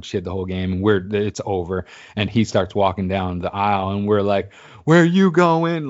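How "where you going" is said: high, loud, drawn-out heckle; retold yelling. Fans heckling a buddy who is leaving, mock yelling. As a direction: yell it teasingly down the aisle. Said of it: "Like, and yelling".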